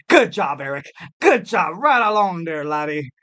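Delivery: put-on Scottish voice; Scottish accent. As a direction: praise like an encouraging Scot. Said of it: "I went to a Scottish accent".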